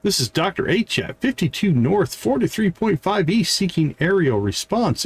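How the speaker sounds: muffled behind a hand; radio voice. Pretend. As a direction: hand over mouth radio call. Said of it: "You gotta put your hand over your face like this".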